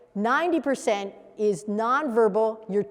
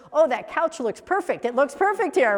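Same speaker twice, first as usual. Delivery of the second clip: higher, mildly delighted buyer voice; pleased buyer; 4 semitones higher, 3 dB louder than usual. Acted. Happy buyer admiring the new couch, lightly acted delight. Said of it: "it's somebody who just bought it".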